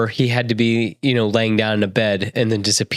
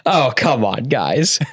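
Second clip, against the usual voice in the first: mock exasperation; slower than usual. Acts out exasperation while reading magazine.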